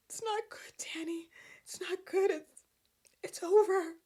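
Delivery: hushed, breathy whisper. Retold or imitated. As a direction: whisper it like tragic news. Cricket's line, retold in mock drama.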